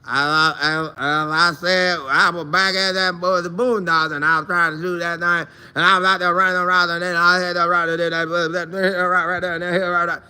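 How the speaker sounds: a hint of a rambling country drawl; loosely mimicking a teammate's South Carolina speech; rambling Southern drawl. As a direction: lightly imitate his Southern ramble. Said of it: "he come back and talk like".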